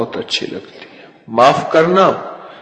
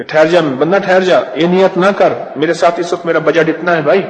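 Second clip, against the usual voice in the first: louder, hurried mock haggling; mock stingy giver; 3 semitones higher, 3 dB louder, faster than usual. Imagined miser telling a servant his budget is limited, hurried. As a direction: play a tight-budget giver, pleading fast. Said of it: "میرا اللہ کیا کوئی کمزور ہے".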